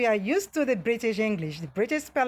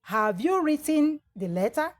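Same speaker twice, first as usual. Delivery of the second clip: correct form; 5 semitones higher than usual. Shown as a demonstration. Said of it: "And so you have".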